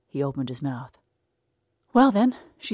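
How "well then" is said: bold and eager. Acted. Maisie May taking the initiative.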